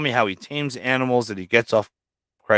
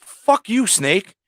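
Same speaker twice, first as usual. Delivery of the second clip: mock angry retort; 8 semitones higher, much slower than usual.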